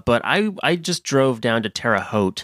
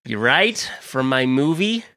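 slow, lightly voiced celebrity impression; a hint of a puzzled movie star, questions drawn out; Jack Black; 3 semitones higher, slower than usual. Celebrity wandering into a podcast, lightly impersonated. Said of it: "was that Jack Black in the hallway".

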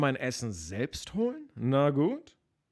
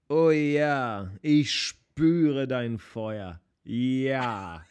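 dramatic voice; 3 dB louder, much slower than usual. Acted. Dramatic moderation attempt.

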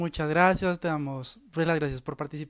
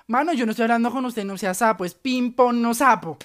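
sassy comeback; 4 semitones higher, 5 dB louder than usual. Retold or imitated.

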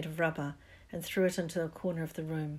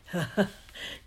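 dark chuckle. Acted. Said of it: "The giant chuckled darkly".

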